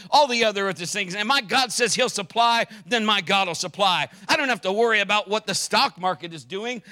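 loud, high, driving sermon voice; full-force preaching. Acted. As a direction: preach it out over the congregation.

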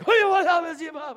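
a woken father, high and loud; dad jolted awake, calling out in alarm; startled dad. Retold or imitated. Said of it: "my dad is like".

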